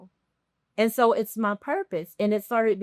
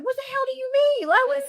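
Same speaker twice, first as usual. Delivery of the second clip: incredulous. Retold or imitated. Retold reaction to coworker's advice.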